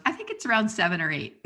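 imitating husband's deadpan reply; dry, understated comeback. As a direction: deliver the joke straight-faced. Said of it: "He's just totally deadpan".

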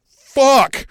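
high, loud burst of frustration; mock curse. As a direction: spit it out in shock. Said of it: "that could have been like".

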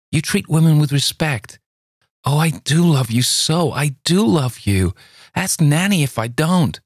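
high, eager outpouring; passionate pleading. A narrator's reading. Luli pleading with Campbell, high and eager. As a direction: pour out her love to him.

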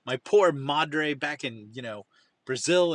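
mild mock begging; retold begging. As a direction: plead lightly, as if retelling a friend's story. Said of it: "I just am begging them".

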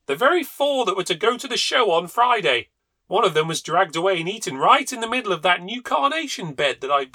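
high, loud aggrieved rant; a squire outraged at his losses; indignant husband. A narrator's reading. Husband complaining to the family about dead fowls, loud high outrage.

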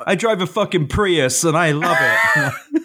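shouted mock boast of an offended conservative; hammed-up yelled neocon defiance; angry neocon. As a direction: bellow it like a proud touchy neocon. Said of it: "neocon fuck get really mad".

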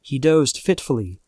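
plain reading voice

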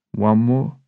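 cheeky, rising at the end; cheeky question. Retold or imitated. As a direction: tempt your mates with a grin you can hear. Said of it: "cheeky look on my face".

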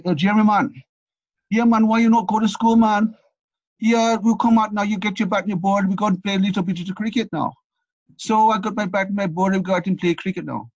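loud, high-pitched attempt at a Jamaican accent. Storyteller as Jamaican boys calling him out to cricket, Jamaican accent. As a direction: put on a hearty Jamaican boys' accent. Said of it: "sorry about the accent".

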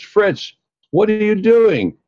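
high, loud indignant question; startled challenge. Retold or imitated. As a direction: call him out in surprise. Al confronts heckler on stage.

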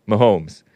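"Mahomes" as ma-HOMES; two syllables in "Mahomes"; other man's pronunciation. Retold or imitated. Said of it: "He said Mahomes".

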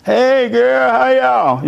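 high, bright-eyed hello between sisters; cheery greeting. Retold or imitated. A mother greeting her sister, high and cheery.

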